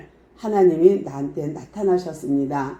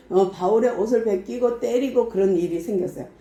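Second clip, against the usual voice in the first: normal talking voice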